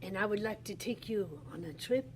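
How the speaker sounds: pretend Henri Matisse. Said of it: "I'm not Henri Matisse".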